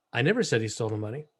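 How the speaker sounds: "I" stressed, the rest quick and low. Shown as a demonstration. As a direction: lean on the opening "I". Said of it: "listen to how I say this".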